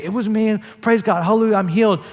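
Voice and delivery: high, loud and jubilant, a hallelujah shout; overjoyed. Pretend. Healed woman to Jesus, proclaiming her healing loudly and overjoyed. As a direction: burst out with joy, full of praise. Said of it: "But she didn't say".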